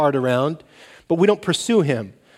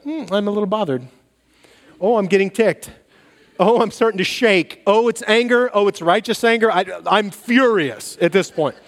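mounting anger; 3 semitones higher than usual. Retold or imitated. Retold anger building.

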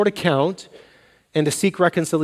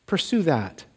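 softer emphasis; 6 dB quieter, slower than usual. Shown as a demonstration. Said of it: "It's not just don't".

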